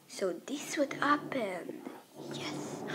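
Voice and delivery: whispering. Acted. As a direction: hush it to yourself. Whispered aside.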